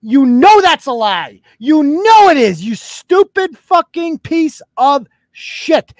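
loud, slow, seething insult; angry rant. Real, not acted. Host to the emailer, loud seething anger.

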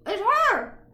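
high, loud, hammed-up recognition; mock excited shout. Retelling the hero spotting his soulmate, mock excited cry. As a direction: cry it out like a cartoon lover.

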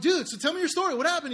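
retold excited plea to the gym guy; eager excitement. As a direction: lean in, desperate to hear it. Eagerly asks the stranger's story.

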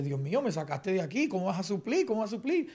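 mildly desperate plea, recalled from hard times; retold desperation. Retelling a prayer to God about provision, mildly desperate and rising. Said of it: "yo estaba desesperado".

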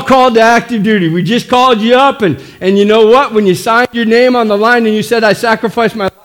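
fired-up preaching. Real, not acted. Pastor calling up enlisted believers, fired-up preaching. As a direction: preach it with force.

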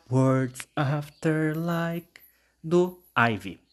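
nome da música bem arrastado; lento e enfático. Real, not acted. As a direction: anuncia o primeiro lugar bem devagar. Anuncia primeiro lugar. (bem devagar, com ênfase)

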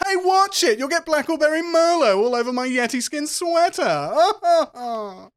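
high, loud braying with big haughty laughs; obnoxious rich snob. Acted. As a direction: crow at the poor in a shrill, loud rich-boy voice. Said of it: "That kind of chat going on".

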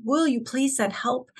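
slow, imploring retold prayer at normal volume; emotional plea. Host voicing struggling neighbors praying to God, emotional plea. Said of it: "they're crying out to God".

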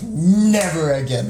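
slow, emphatic retold "Never again"; emphatic vow. Retelling their vow after gruelling shoot.

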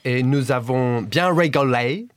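English-accented French, nous avons sounding native; imperfectly faked English accent in French; English accent slipping French. Shown as a demonstration. Guest continues his impression, English accent slipping into French. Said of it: "nous avons was a little bit French".

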